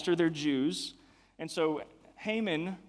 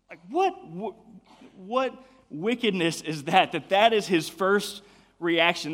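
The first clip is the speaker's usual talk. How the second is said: what jumps way up in outrage; shocked disbelief; 2 semitones higher, 4 dB louder than usual. Real, not acted. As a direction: sound stunned that anyone could think this. Preacher outraged at Haman's plan.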